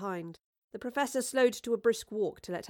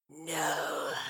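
hissing voice; 5 semitones lower, 3 dB quieter than usual. Acted. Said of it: "came a hissing voice".

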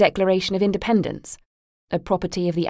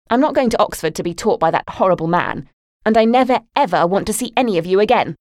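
much louder, higher furious yell on never; furious shout; 3 semitones higher, 5 dB louder than usual. Acted. Daughter yelling she never wants to see them again, furious. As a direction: scream your break from the family.

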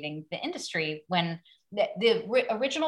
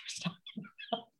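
laughing; 13 dB quieter, faster than usual. Real, not acted. Laughing at own embarrassing story.

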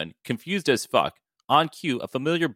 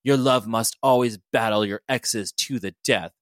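stern warrior voice; 2 semitones lower than usual. Acted. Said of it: "Mariko snapped".

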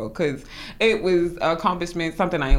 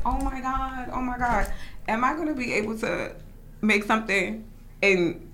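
worried inner voice; 4 semitones higher, 3 dB quieter than usual. Retold or imitated. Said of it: "I was scared 'cause I'm like".

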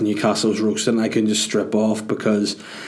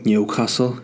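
put-on Newcastle upon Tyne accent. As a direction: say it with a mock Geordie accent. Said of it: "why I did that accent".

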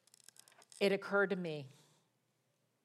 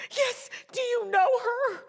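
high, slow, crying question; tearful gasp; 7 dB louder than usual. Retold or imitated. Woman asking the prophet if he knows her, crying question. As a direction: ask it through a sob.

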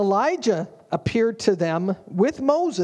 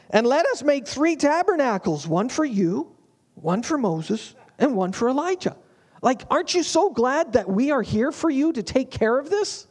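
a higher, mildly mock-eager Peter listing tabernacles; hammed-up helpful disciple, lightly voiced; 5 semitones higher than usual. Peter offers to build three tabernacles, higher and mock eager. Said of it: "Peter answered and said".

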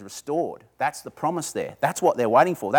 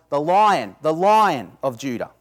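louder and slowed, The Lion of Judah; grand announcement; 5 dB louder, slower than usual. Retold or imitated. Telling the weeping listener to look up, grand. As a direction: proclaim it slowly and grandly.

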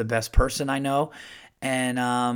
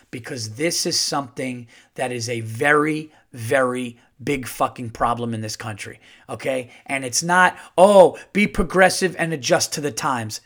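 calm turning angry. Real, not acted. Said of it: "I don't know if I'm gonna curse or freak out or if I'm gonna stay calm".

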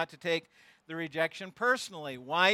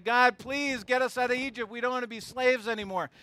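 pleading Israelites; 4 semitones higher, 3 dB louder than usual. Retold or imitated. Israelites begging God, voiced.

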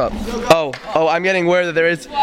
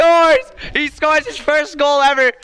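excited goal call; 8 semitones higher, slower than usual. Acted.

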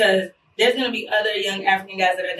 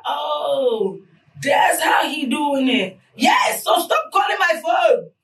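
mock shout; 5 semitones higher, slower than usual. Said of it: "they'll be like".

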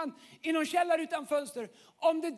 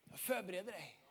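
much softer, intimate and hushed; soft voice of God; 9 semitones lower, 14 dB quieter than usual. Acted. God tenderly speaking to the listener, soft and hushed. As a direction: let God speak gently, almost a secret.

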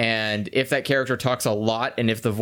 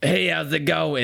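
second character voice; 4 semitones higher than usual. Shown as a demonstration. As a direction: switch to another character's voice. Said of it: "immediately have to go to".

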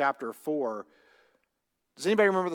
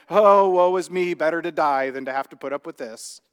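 melodramatic lament; 5 dB louder than usual. Retold or imitated. Jonah whining dramatically to God, hammed-up woe. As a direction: overdo the self-pity like a mock tragedian. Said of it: "he's being a little dramatic".

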